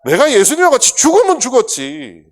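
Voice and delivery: loud high oath; bold vow. Retold or imitated. Peter vowing to Jesus, loud high oath. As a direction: swear it out loud.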